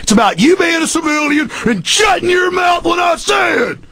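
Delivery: fast, then high shouted; cop bluster. Retold or imitated. Host's cop voice telling the caller to shut up, shouting. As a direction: boast and bully. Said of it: "that's an imitation of 'em".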